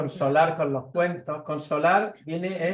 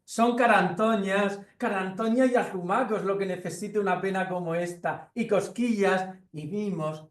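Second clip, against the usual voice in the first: lightly voiced mouse giving advice; 5 semitones higher than usual. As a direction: list the cuddles like a cheerful mouse. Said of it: "dice el ratón".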